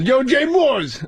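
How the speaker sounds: high, slow street voice calling out; Tracy impression. Telling a friend, as Tracy greeting the comic. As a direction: stretch the name out, high and slow. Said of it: "He goes".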